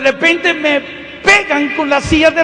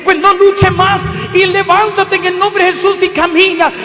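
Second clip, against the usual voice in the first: commanding cry; 5 semitones higher, 5 dB louder than usual. Retold or imitated. Commanding her to rise and walk.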